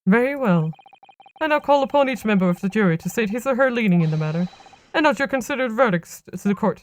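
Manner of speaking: formal judge. Acted. Plays the judge calling the jury.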